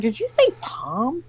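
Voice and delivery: slow, stunned "did you say Palm?"; stunned disbelief. Retold or imitated. Retelling how she reacted to the grandma, slow and stunned. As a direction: drag it out, hardly believing the name. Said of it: "And I'm like".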